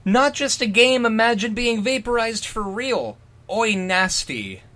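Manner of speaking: put-on a touch of a high, eager kid voice; lightly voiced schoolboy relishing it. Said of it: "the speaker stated".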